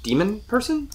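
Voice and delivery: halting, high questioning tone; pause, then lift it into a question; tentative, uncertain guess; unsure. A narrator's reading. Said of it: "unsure of herself".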